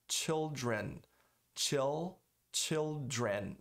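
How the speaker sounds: put-on "children" with L and final N sounded; clear L and N. Shown as a demonstration. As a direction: close "children" on a true N. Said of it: "Nota que eu falei o N".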